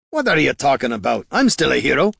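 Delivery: lively in-character indignation; indignant protest. Acted. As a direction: push back, affronted. Gorm indignantly objects.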